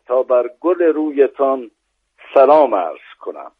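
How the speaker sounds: measured, rhythmic verse reading; poem recitation. Acted. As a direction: recite the quatrain with weight. Recites a rubai.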